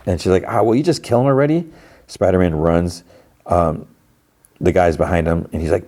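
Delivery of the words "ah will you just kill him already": high, quick exasperated call; mock yell. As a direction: imitate an impatient woman yelling, without real volume. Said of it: "Lady's, like, standing yell".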